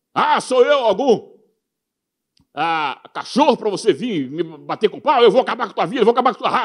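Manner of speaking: loud, high-pitched taunting shout. Preaching, acting out Goliath's words to David: Goliath voice. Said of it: "à voz de Golias em relação a Davi".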